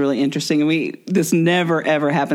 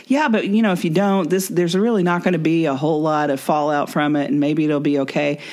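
tempting inner voice; 2 semitones higher than usual. Retold or imitated. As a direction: sweet-talk yourself into skipping it.

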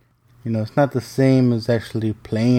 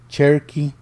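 Cherokee lifted higher, questioning; incredulous query; 4 semitones higher than usual. Retold or imitated. Daughter doubting dad's tribe suggestion, mildly incredulous. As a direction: repeat Cherokee back in mild disbelief.

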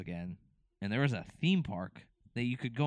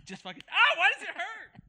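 laughing; 8 dB louder than usual. Real, not acted. Laughing in pain.

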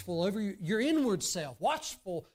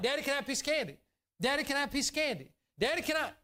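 lightly voiced child nagging, higher pitch; pestering little daughter; 5 semitones higher, much faster than usual. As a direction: imitate a child repeatedly interrupting dad, quick and insistent. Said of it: "she's not supposed to interrupt".

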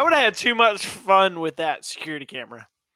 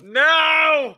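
short, high, louder outburst; exclaimed no; 7 semitones higher, 4 dB louder than usual. Real, not acted. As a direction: cry out in sudden disbelief. Mock-reacts to drunk friend's plan.

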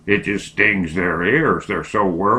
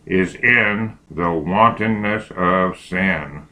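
dictating; slower than usual. Shown as a demonstration.

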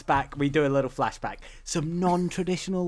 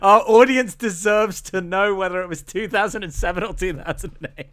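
pretend-stern lecture with pitch lifted; mock indignation; 3 semitones higher, 3 dB louder than usual. Co-host telling Alexander details are important, mock indignation. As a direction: scold playfully as if the detail were vital. Mock reproach over trivial date.

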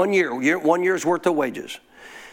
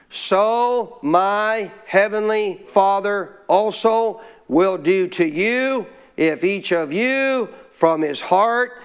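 slow scripture reading; much slower than usual. Acted.

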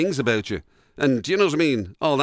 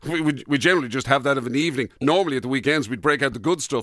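mock posh host; faster than usual. Posh host showing off wine.

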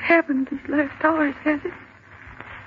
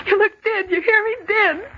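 rising panic, a cry breaking in; frightened near-hysterical wail; terrified crying; 2 semitones higher than usual. Acted. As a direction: sob out the words in fear. Terrified girl in green light.

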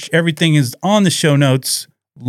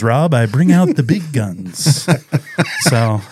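laughing; slower than usual. Real, not acted. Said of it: "sometimes I do conversational".

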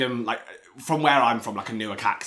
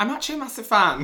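mock fan gush; 12 semitones higher, 4 dB louder, faster than usual. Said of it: "Imagine if I was like".

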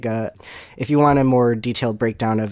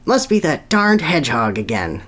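mild mock yell; 4 semitones higher, 4 dB louder than usual. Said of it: "the bowler would yell".

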